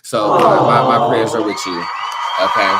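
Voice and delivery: emphatic shout of support; loud prayers. Real, not acted. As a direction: shout your sympathy to the victims. Loud prayer sent to civilians.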